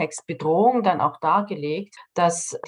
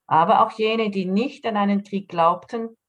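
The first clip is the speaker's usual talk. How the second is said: reading aloud. Real, not acted. Author reads a short story quotation to the interviewer, measured reading aloud. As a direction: read the quotation out deliberately, with pauses between sentences. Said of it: "das lese ich jetzt vor".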